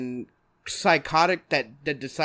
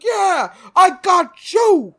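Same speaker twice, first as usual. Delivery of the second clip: high, loud triumphant villain yell; Penguin; 14 semitones higher, 12 dB louder, much slower than usual. Acted. Villain crowing in the car chase, triumphant yell. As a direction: yell it drawn out, gloating. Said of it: "that part when he was like".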